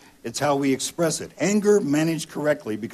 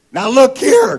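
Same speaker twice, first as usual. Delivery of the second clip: much higher, much louder angry shout; angry man; 15 dB louder than usual. Retold or imitated. Stranger shouting at a repeat wrong-number caller, furious. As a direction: yell into the phone, fed up. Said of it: "came the, the voice".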